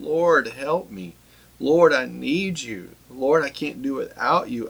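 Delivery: slow, aching plea to the Lord; mild lament, slowed right down; slow pleading prayer. Acted. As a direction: draw each plea out like a moan. Voicing the psalmist's moaning prayer.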